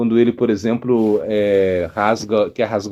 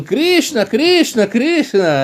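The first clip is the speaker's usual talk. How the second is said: higher, urgent repeated calls; agitated calling; 10 semitones higher, much slower than usual. Retold or imitated. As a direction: call the name out in alarm. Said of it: "um pescador chegou falando". (pescador chamando agitado, mais agudo)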